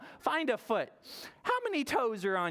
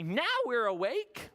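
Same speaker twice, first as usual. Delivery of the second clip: lightly voiced frogs, a bit higher; awake frogs; 5 semitones higher than usual. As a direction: announce it like frogs just woken up. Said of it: "not so sleepy frogs say".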